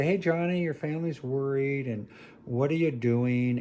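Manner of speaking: a hint of a gentle, concerned nun. Nun phoning the family's son, lightly voiced and gentle. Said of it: "to just very gently say".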